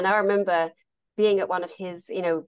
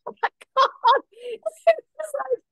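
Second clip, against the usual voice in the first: high, loud laughter through the words; real amused giggle; laughing; 4 dB louder than usual. Real, not acted. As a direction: burst out laughing in disbelief. Laughing at the absurd memory.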